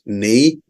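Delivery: "knave" said slowly in two syllables, nay-vay; pronunciation demo. Shown as a demonstration. Teacher shows how the word is pronounced, "knave" as slow nay-vay. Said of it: "this is pronounced as".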